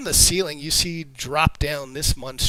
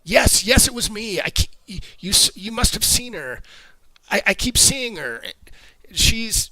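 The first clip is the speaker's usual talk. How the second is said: frantic screaming confession; 6 semitones higher than usual. Acted. Drunk stable hand screams his confession to the party. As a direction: blurt it all out in terror. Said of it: "screams out".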